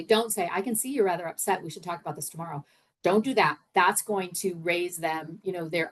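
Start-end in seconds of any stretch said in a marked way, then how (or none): 0.5-2.6 quick, dismissive brush-off, trailing softer; wrong way to say it. Shown as a demonstration. Coach demonstrating what not to tell an upset colleague, dismissive. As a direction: rush past their feelings with a brush-off.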